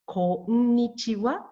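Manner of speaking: "konnichiwa" with a held, separate first n, ko-n-nichiwa; long first N. Shown as a demonstration. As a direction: linger on the n of "konnichiwa". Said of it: "even though you mispronounce".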